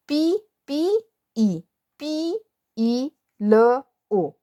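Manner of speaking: drawn-out syllables, one sound at a time. Shown as a demonstration. Teacher breaking the word pillow into sounds, sounding out. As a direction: stretch each piece, "पी", "ई", "ल", "ओ", very slowly.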